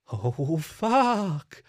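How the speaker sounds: forced out of her in one breath; gasped oath. Acted. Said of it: "Tsukiko gasped".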